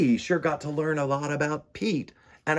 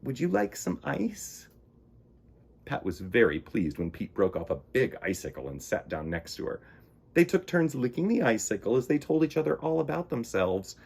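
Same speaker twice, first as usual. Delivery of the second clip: gentle read-aloud storytelling; storybook narration. A narrator's reading. Reading a children's story.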